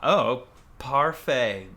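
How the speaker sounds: put-on slow hammy French accent; drawn-out mock French; foreign accent in french. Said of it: "my French is beaucoup good".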